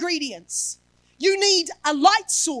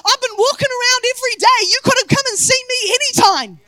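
casual Jesus; 5 semitones higher, 7 dB louder, faster than usual. Retold or imitated. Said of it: "he's like".

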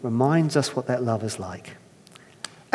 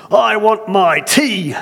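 loud, slow, higher demand in an Irish lilt; 8 semitones higher, 5 dB louder, slower than usual. Acted. First man demanding tea in an Irish accent. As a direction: insist on your tea like a spoiled husband. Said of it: "that's how it's written".

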